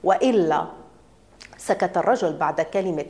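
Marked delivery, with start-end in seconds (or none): 0.0-0.7 a terse threat with a falling close; threatening. A narrator's reading. Man warns the doctor about his report, threatening. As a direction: let the word land as a threat. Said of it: "التي قالها بلهجة التهديد".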